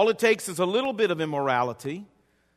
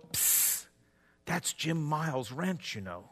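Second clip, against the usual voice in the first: soft, hushed voice of the Holy Spirit, much softer; retold whisper; 4 semitones lower, 10 dB quieter, slower than usual. The Holy Spirit whispering to the preacher under the car, much softer. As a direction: breathe it like a nudging conscience. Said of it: "the Holy Spirit would whisper to me".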